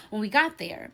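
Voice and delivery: usual speaking voice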